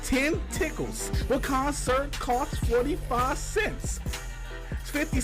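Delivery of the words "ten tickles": usual speaking voice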